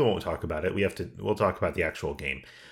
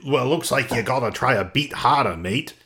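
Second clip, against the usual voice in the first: a bit louder mock Cockney taunt; mild Cockney yell at a losing player; Cockney jeer; 5 semitones higher, 4 dB louder than usual. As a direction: tease the player in a hint of Cockney, raised voice. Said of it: "he just yells at you".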